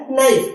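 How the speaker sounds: नाइफ begun straight on N; no K sound before the N in नाइफ; silent K. Shown as a demonstration. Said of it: "यहाँ पर के silent क्यों है". (नाइफ में के silent)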